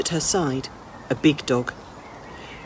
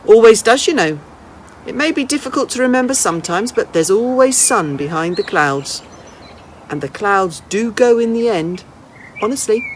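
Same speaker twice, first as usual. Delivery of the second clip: put-on a brisk, kindly old woman, a little higher; an old lady teasing a runaway boy, then inviting him in; lightly voiced old lady; 4 semitones higher, 4 dB louder than usual.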